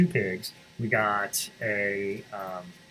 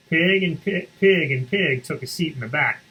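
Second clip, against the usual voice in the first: ordinary delivery, nothing marked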